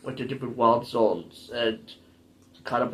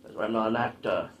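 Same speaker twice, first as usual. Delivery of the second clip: slightly low, lingering mock Austrian accent; leftover Arnold accent; 3 semitones lower, 6 dB quieter, faster than usual. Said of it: "I still have the accent".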